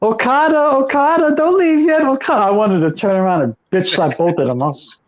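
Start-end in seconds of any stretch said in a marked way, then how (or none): 0.0-2.5 higher, sing-out taunt in imitation; mocking tease. Imitating a wrestler after the match, mocking tease. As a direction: mimic a wrestler teasing his rival. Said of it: "mocking, uh, tease".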